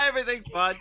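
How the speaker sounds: high, loud laughing sarcasm. Real, not acted. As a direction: laugh through the fake cheer. Joking about lost viewers.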